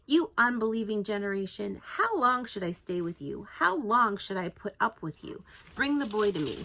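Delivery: frustrated, pressing rebuke; exasperated teacher rebuking his followers; exasperated Jesus. Retold or imitated. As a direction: scold them, fed up. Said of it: "when I read it in my mind".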